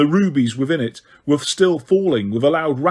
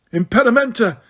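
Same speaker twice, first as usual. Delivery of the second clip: yelled spell; 7 semitones higher than usual. A narrator's reading. Harry rolling in the grass, yelling a jinx at pursuers. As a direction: spell shouted high and urgent. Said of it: "he yelled".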